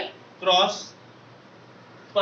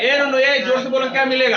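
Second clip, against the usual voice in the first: sharp raised teacher voice, no no; louder classroom reprimand; loud scolding call; 5 dB louder than usual. Real, not acted. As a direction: call the class to order loudly.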